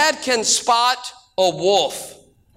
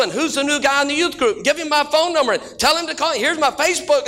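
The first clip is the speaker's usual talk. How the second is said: mock eager girl; 6 semitones higher, faster than usual. Mocking an eager girl chasing.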